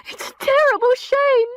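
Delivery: high, loud and upset; alarmed maid. A narrator's reading. Maid showing the sale notice, alarmed and upset. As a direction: blurt out the bad news.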